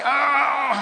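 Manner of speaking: loud, high startled yelp. Retold or imitated. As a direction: jump as if caught off guard. Startled when caught by nun.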